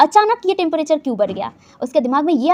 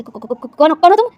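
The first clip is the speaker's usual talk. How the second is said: scared stammer; 3 dB louder than usual. Acted. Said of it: "वो ना डर गया था".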